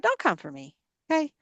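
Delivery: firm warning. Retold or imitated. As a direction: set the boundary quietly and firmly. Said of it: "And I had to tell God".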